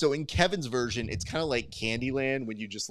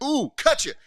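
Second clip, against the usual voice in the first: mock movie threat; 12 semitones higher, 7 dB louder than usual. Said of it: "It's like".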